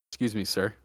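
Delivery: politely flag down a customer; gently apologetic service voice; very polite barista. Retold or imitated. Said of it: "he says very politely".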